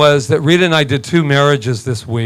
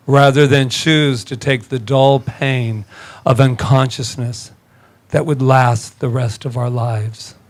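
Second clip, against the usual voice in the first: quote reading; slower than usual. Shown as a demonstration. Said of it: "I'll say that again because it's so light and airy".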